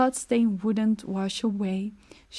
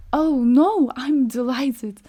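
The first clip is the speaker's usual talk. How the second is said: forced cheer; 3 semitones higher, 6 dB louder, slower than usual. Acted. Frightened wife forced cheer.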